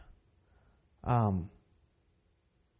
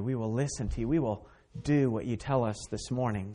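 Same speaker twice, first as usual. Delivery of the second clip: prayer. Acted. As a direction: pray gently, heads bowed. Pastor leads a prayer.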